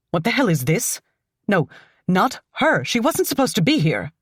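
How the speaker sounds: alarmed protest. Acted. Woman discovers unexpected captive.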